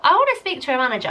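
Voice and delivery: mock entitled customer. Demanding a manager from the flower company, hammed-up. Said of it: "I did the whole ... don't even have that haircut".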